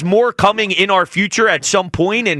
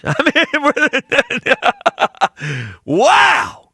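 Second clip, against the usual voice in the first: laughing; 7 semitones higher, much slower than usual. Real, not acted. Host laughing in awe.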